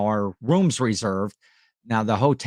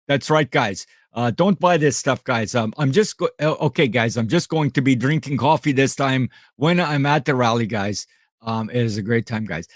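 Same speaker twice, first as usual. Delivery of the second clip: lightly voiced impression of a friend; a hint of Roman's accent, punctuating with guys; Roman impersonation. Streamer playfully imitating his friend's accent for the chat, light impersonation. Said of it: "That's my Roman impersonation".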